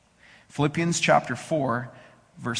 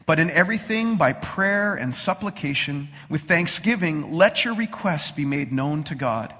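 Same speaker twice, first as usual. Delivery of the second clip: scripture reading. Acted. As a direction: read it calmly to the congregation.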